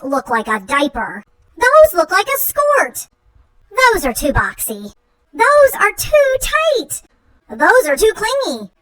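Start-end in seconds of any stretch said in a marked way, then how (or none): 1.6-3.1 much higher fussy rejection; choosy monster scoffing in a high voice; picky squeal. Acted. 5.3-7.0 much higher fussy rejection; choosy monster scoffing in a high voice; picky squeal. Acted.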